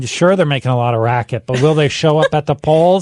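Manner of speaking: hammed-up skeptical grouch, rising in pitch; mock grumbling. Co-host doubting young voters for a joke, mock grumbling.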